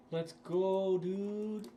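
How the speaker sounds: loud, high cheer of joy; excited shout. Real, not acted. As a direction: yell it out, thrilled by the drop. Rare drop celebration.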